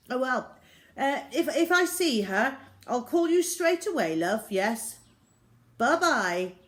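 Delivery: high, loud, nervous placating; flustered dad. Acted. Dad hurrying his angry wife off the phone, flustered and loud. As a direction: gabble to get her off the phone.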